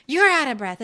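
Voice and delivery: laughing at the words; giggling through it. Real, not acted. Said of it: "I'm not out of breath".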